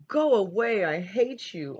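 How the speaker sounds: loud, high furious shout. A narrator's reading. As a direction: yell it at grandfather, then fall off. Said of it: "An shouted".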